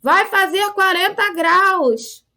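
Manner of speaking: Rio accent. Shown as a demonstration. Teacher acting a Carioca complaining about the heat, Rio accent. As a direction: stretch "Caraca" like a startled Carioca. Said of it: "o pessoal fala muito".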